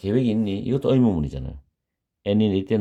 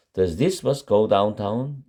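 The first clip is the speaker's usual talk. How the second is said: slow model sentence; 2 semitones higher, much slower than usual. Shown as a demonstration. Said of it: "teacher models the sentence slowly".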